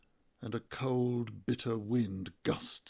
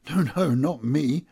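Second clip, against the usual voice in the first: loud, defensive blurt; sudden protest, a touch of alarm; hasty denial; 3 semitones higher, 9 dB louder than usual. A narrator's reading. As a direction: deny it before you can think. Blurts out a denial when questioned.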